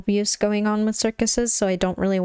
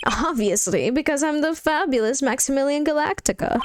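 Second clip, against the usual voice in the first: lightly boastful showman, rising higher; flamboyant star magician; 6 semitones higher than usual. Acted. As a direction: announce yourself with a touch of grandeur.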